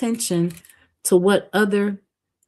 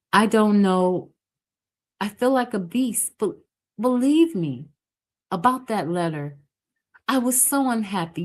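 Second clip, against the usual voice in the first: put-on higher, tearful young woman's plea; pleading young woman; 5 semitones higher than usual. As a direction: beg forgiveness in a higher girl's voice. Edna's voice, pleading apology.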